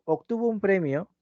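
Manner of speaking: PREMIO closed off as a statement, no questioning rise; declarative statement. Shown as a demonstration. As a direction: say it as a statement, ending settled on PREMIO. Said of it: "es una oración enunciativa". (tono enunciativo, sin subir en PREMIO)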